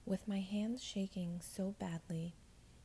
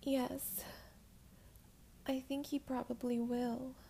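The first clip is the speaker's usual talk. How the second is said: soft and kind; 6 semitones higher than usual. Acted. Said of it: "as softly and as kindly as I could while trying to stop crying".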